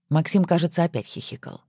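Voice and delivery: plain reading voice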